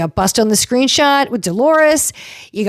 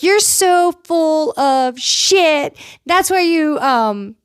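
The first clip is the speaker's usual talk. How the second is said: mocking high voice; 5 semitones higher, slower than usual. Retold cast fight, mocking voice.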